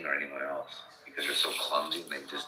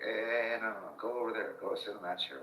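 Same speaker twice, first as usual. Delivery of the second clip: mock dad shooing kids; 5 semitones higher than usual.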